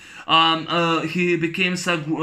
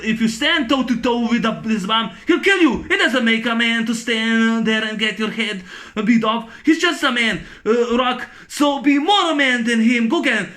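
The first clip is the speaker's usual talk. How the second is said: higher, pushed coach speech peaking in a yell on kill; hammed-up pep talk; 4 semitones higher than usual. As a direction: fire up the fighter like a movie coach. Retold trainer's pep talk.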